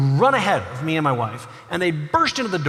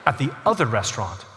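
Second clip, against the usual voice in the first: put-on indignant little girl; 6 semitones lower, 5 dB quieter than usual. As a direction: put the waiter in his place with dignity. Five-year-old daughter offended.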